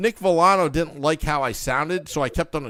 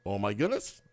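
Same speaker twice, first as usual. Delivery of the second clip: hushed repeat; 8 semitones lower, 10 dB quieter than usual. Real, not acted.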